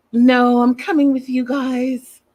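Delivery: hammed-up sobbing protest; mock crying. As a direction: plead as if starting to cry. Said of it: "Darcy starts crying".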